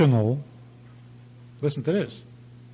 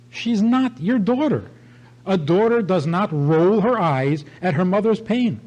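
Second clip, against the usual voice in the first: raised, insistent rebuke, higher pitch; indignant scolding; 4 semitones higher than usual. Retold or imitated. Rabbi rebuking the mother over her daughter, indignant. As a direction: scold her for allowing the disrespect.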